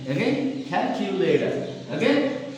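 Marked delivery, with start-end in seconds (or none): 0.7-1.7 "calculator" with a puff of air on the first C; aspirated K. Shown as a demonstration. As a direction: repeat "calculator" with an airy K at the start. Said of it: "maintain aspiration exactly".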